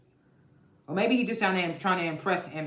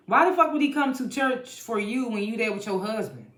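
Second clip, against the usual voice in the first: higher, louder incredulous scolding; indignant outburst; 5 semitones higher, 3 dB louder than usual. Real, not acted. Recapper scolding the married woman about church, high indignant outburst. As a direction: call her out in disbelief.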